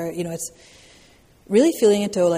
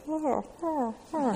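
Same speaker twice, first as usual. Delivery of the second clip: soft, much higher cooing oh's; mock tender soothing; 10 semitones higher, 6 dB quieter, much slower than usual. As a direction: coo like someone comforting a hurt player. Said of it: "in this very tender way".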